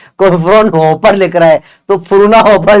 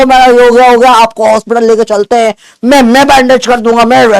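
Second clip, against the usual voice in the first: eager busybody seniors; 3 semitones higher than usual. Retold or imitated. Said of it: "कुछ चच्चा लोग होते हैं ना".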